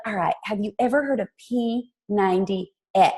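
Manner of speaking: lightly imitated sweet Southern accent; touch of a sweet Southern voice; Jackie Woodfin. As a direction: ask it in a mild Southern accent. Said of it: "I'm gonna do her accent".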